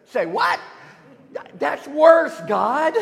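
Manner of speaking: can't believe what he just heard; mock-horrified Habakkuk yelps at God; shocked.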